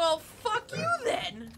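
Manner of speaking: slow, high, indignant yell; drawn-out offended shout; mock outrage. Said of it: "and you're like".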